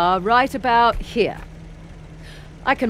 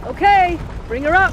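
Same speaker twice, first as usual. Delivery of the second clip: straining effort; 10 semitones higher, 4 dB louder than usual. Acted. Straining to lift heavy door.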